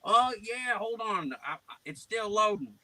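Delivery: high, stalling prank voice; put-on prank persona. Plays himself stalling the caller.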